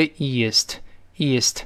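"east" as two sounds, ee-ist; ending pronounced separately. Shown as a demonstration. Teacher drills the ending for students, "east" carefully as ee-ist. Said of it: "它都是发音的".

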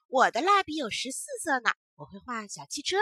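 put-on sniffy little girl bragging; pouting brag. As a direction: pout and show off. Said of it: "小翠一撇嘴说".

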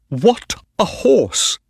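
high, drawn-out admiration; thrilled exclamation; delighted marvelling. A narrator's reading. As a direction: marvel at the winner, slow and high. Owner marvels at winning horse.

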